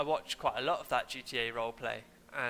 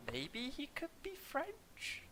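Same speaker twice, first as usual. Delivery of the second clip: mock French accent; 12 semitones higher, 10 dB quieter, much slower than usual. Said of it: "comes out all sorts of different nationalities".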